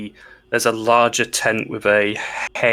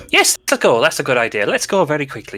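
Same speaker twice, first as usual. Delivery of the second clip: nervous halfling; 5 semitones higher, faster than usual. Acted. Halfling panics as ogre rises.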